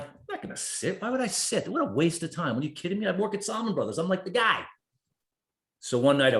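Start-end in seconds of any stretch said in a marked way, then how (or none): 0.0-4.6 incredulous scoff. Retold or imitated. Scoffing at friend's advice to sit.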